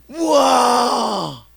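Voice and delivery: put-on high, loud drawn-out child's wow; thrilled shout. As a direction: cry out in pure wonder. Son overjoyed. (아이의 높고 길게 외치는 감탄)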